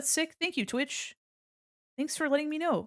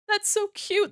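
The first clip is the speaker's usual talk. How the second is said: adoring; 10 semitones higher, slower than usual. Real, not acted. Gushing over an emote.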